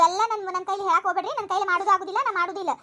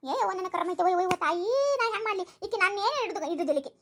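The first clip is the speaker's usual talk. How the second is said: low, softer self-pitying moan; wailing lament; 4 semitones lower, 4 dB quieter than usual. Acted. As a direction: lament your fate, sinking lower. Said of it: "ಹಂಗ್ಯಾಕ್ ಹೊಯ್ಕೋತಿ". (ಹಣೆಬರಹ ಹಳಿಯುತ್ತಾ ಗೋಳಾಟ)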